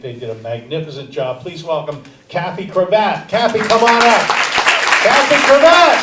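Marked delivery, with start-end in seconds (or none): 3.3-4.3 loud, higher announcer calls, names stretched out; stage announcer. Acted. Host announces comics to stage. 5.0-6.0 name boomed out loud and higher; stage announcer. Acted. Host calling comics to stage.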